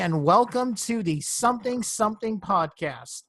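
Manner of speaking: bright, lifted show-opening greeting; podcast host voice. Acted. Host opening the podcast for listeners, in bright announcer voice. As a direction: welcome the listeners like a radio host. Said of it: "podcast voice".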